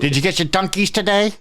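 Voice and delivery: lightly voiced nagging coffee fan; mock fan. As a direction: needle them like a pushy fan. Mocking Dunkies fans.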